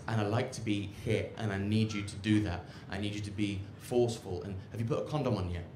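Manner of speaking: low, hushed, insistent lover; quoted woman, low and quiet; woman's urgent request. Retold or imitated. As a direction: murmur intimate demands, low and soft. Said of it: "she said to me".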